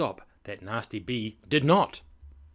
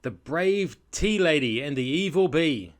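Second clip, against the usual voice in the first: louder, higher storybook title; story title announcement; 4 semitones higher, 5 dB louder than usual. Acted. Announcing the picture book to listeners, dramatic title read.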